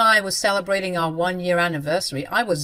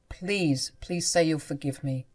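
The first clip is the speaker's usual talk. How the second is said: quiet plea; 4 semitones lower, 5 dB quieter than usual. Acted. Husband pleads.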